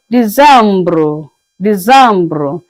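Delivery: "December" said "dee-zambruh", French style; "December" with a nasal middle and a rolled ending; French décembre. Shown as a demonstration. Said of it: "pronounced as".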